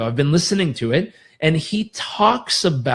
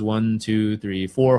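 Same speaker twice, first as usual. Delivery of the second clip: calm counting; 6 semitones lower, slower than usual. Shown as a demonstration. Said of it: "now go into box breathing".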